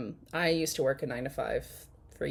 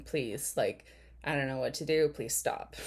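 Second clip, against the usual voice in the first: low, hushed mock plea; begging; 3 semitones lower, 5 dB quieter than usual. Host voicing what the woman's body language says, softly pleading. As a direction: imitate her begging, softly and understated. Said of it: "she's begging".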